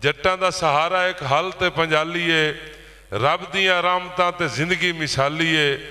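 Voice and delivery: even, rhythmic rhymed couplet; poetry recital. Acted. Poet shares farming poem with ploughmen, declaimed verse. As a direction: declaim in steady metre to the room.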